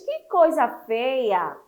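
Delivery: a classroom reading of the sample sentence; slow example reading. Shown as a demonstration. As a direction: read out slowly, barely exclaimed. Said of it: "tem um exemplo no livro de vocês".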